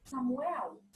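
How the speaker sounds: a mother calling her son softly nearby. Shown as a demonstration. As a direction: call the name gently, no shouting. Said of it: "intensidade fraquinha".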